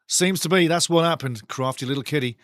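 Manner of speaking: usual speaking voice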